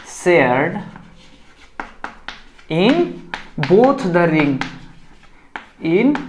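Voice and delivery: dictating slowly with long gaps for note-taking; slow dictation, word by word. Shown as a demonstration. Teacher dictating a definition for students to copy, slow and spaced. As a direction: spell it out slowly so they can write. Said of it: "ऐसे लिखेंगे".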